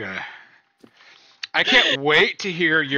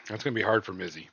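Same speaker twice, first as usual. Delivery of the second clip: whisper; 7 semitones lower, 9 dB quieter, faster than usual. Real, not acted. Teasing aside under breath.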